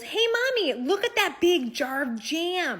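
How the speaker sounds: high, loud imitation of a little boy; excited five-year-old. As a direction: call out to mom like an excited child. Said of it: "my five-year-old notices a giant jar".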